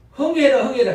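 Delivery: a playful motherly chant; mother's blessing. Retold or imitated. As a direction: chant it like a mother wiping a runny nose. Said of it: "치마 가지고 닦으면서".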